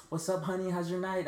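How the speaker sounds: high-pitched mimicked street come-on; hooker's come-on. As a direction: imitate a hooker calling out to a passerby. Hooker greets him in story.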